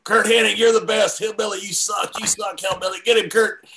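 high cheering fan voice; mock fan heckling. Lone fan cheering from crowd.

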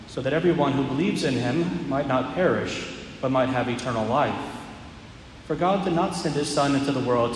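solemn proclamation, measured pace; Gospel reading. Acted. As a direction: proclaim it from the ambo.

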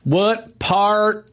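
high, slow Southern redneck drawl; Southern redneck accent. Retold or imitated. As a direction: play a backwoods Southern grump demanding food. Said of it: "this one gets a lot of flack".

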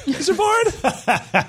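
very high, drawn-out ghostly call. Pretend. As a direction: stretch it slowly, high and hollow. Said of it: "why do I sound like a ghost?".

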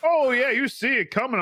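put-on a light Southern old-timer voice, lifted at the start; grandpa's southern drawl. Grandson imitating his grandpa with a mild southern accent. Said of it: "whenever I do my southern voice".

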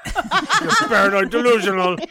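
lightly voiced cartoon villain hotline recording; hint of cartoon villain as automated menu; Strong Bad. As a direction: read phone menu options in a character voice. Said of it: "in the strong, bad voice".

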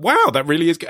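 father thrilled by son's tractor drawing; genuinely excited. Retold or imitated. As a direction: let real delight into it. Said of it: "I was excited".

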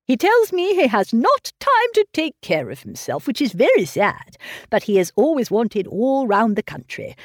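lightly voiced fussy old father, fretting over his daughter; a hint of a doting, anxious old man pressing gruel. Mr Woodhouse on Perry.

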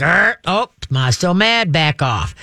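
mock growl of a mother dog. Mother dog warns her pup, growl. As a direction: growl a short warning, then talk. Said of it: "she'd give him a growl like".

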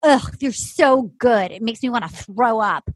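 grudging disgust, dragged out; retold disgust. Host quotes Jamie backstage reacting to the rival couple, disgusted. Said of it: "Jamie goes".

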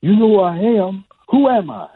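high-pitched champ asking to be recognised; Muhammad Ali. Retold or imitated. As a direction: ask it high, in a boxer impression. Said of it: "He goes".

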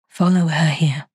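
whispered, low and beckoning; eerie whisper. Acted. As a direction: breathe it like a lure from beyond. Ghost caller urges her.

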